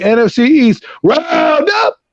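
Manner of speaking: voice cracking. Real, not acted. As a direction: voice cracks high on roundup. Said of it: "Sorry, my voice just cracked there".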